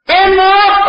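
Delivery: very high, startled question; retold disbelief, pitch leaping up; acted shock. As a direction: react to sudden news of a death. Reaction to death news.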